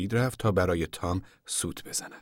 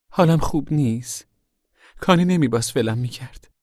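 high, louder plaintive voice; upset complaint; 8 semitones higher, 5 dB louder than usual. A narrator's reading. Daughter tells her mother she was abandoned, upset.

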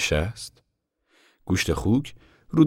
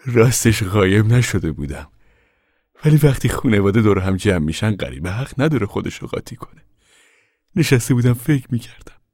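louder, higher character voice; explaining preacher; 5 semitones higher, 5 dB louder than usual. Acted. Preacher explaining to Tom why he stayed back, in character. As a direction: explain yourself in a raised voice.

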